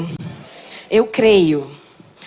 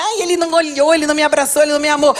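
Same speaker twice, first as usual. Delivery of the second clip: cristãozinho com dorzinha; 3 semitones higher, much faster than usual. Retold or imitated. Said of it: "cristãozinho com dorzinha".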